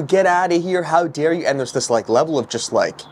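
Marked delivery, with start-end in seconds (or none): 0.0-1.5 imitated yelling. Street preacher mimicking people yelling at him, mock yell. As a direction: imitate an outraged heckler without really shouting. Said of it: "Everyone's yelling at you".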